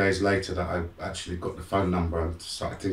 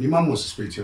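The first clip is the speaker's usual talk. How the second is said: higher-pitched insistent quote; mildly acted insistence; retold cousin; 6 semitones higher, 4 dB louder, faster than usual. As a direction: repeat the news in a lifted, imitating voice. Cousin repeats the news.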